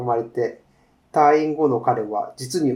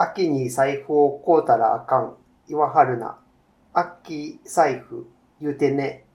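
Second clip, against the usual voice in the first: put-on reading the story in a light Kansai accent; a hint of Kansai dialect, easygoing. Co-host reads the Kansai-dialect story aloud, a light Kansai accent. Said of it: "関西弁ですね".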